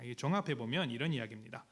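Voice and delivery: normal talking voice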